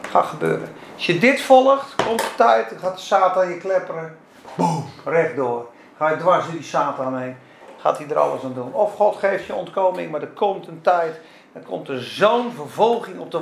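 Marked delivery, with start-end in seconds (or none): none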